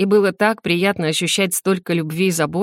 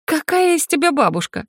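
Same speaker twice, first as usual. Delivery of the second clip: indignant; 8 semitones higher than usual. Acted. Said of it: "возмутилась я".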